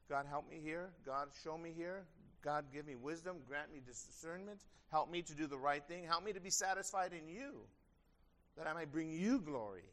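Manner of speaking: soft, sincere petition; personal prayer. Acted. Preacher modelling a prayer for help during the day, softly. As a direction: pray it quietly, one request after another.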